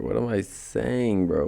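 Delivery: words stretched through a yawn. Real, not acted. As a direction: talk mid-yawn, slow and drawn. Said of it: "I was yawning".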